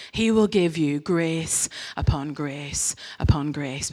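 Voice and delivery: slow whisper, grace upon grace; whispered promise. Acted. Preacher assuring the congregation of grace, slow whisper. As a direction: breathe it out slowly, tender.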